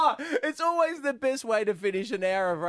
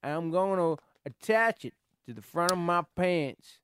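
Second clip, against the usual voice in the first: put-on mild southern accent. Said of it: "how's your southern accent there".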